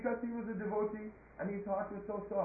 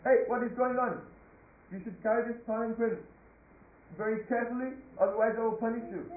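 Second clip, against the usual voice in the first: louder, sharply scolding king; indignant royal reprimand, raised voice; angry king; 2 semitones higher, 5 dB louder than usual. Acted. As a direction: scold a careless servant with a warning. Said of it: "he became ha-, angry".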